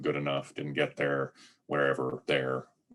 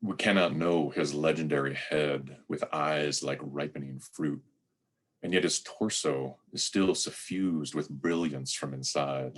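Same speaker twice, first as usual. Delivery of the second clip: poem reading. Acted. Preacher reads Rilke's poem to congregation, measured recital.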